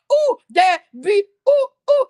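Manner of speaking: high, loud squealing "ooh, ooh"; mock foaming-mouth drama. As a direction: ham up a ridiculous high squeal. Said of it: "I could never get on here and be like".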